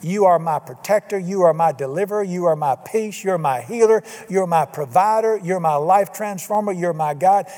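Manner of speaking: steady prayer cadence, each "You are" lifted. Shown as a demonstration. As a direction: pray it as a daily example. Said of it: "many times during the day".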